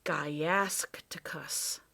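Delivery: slow, whispered, choked word; coughed out. Acted. Professor in swirling dust, coughing the word. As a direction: force the name out through the dust. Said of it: "coughed the professor".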